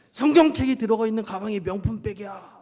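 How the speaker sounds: emphatic repeat. Retold or imitated. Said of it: "이렇게 하면서".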